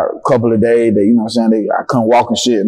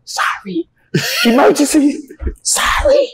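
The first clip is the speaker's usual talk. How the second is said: hurried apology; slower than usual. Retold or imitated. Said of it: "So she still out the door like".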